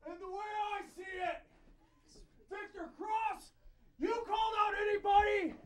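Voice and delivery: shouting through a cone. Real, not acted. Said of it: "I don't need a microphone because I found this cone".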